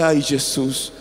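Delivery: low, subdued mock groan; retold pain. Pastor in bed as pain begins, low pained moan. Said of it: "Yo falei".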